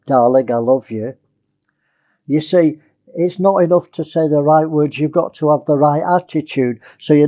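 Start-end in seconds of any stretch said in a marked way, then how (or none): 0.1-1.1 lower, tender darling; husband saying I love you tenderly; loving tone. Shown as a demonstration. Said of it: "Difference to saying".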